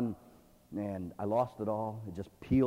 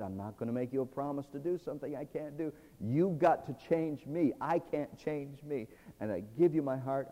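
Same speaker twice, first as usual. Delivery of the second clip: tearful prayer. Retold or imitated. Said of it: "with tears rolling down my face".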